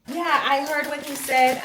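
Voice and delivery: high-pitched tearful reply, imitated; imitated crying. Mother answering her daughter about the stepfather, imitated crying. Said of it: "she's still crying".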